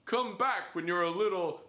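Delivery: lightly voiced merchant pitch, drawn out; shopkeeper voice. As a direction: play the greedy shopkeeper haggling with Link. Quoting shopkeeper meme to Link.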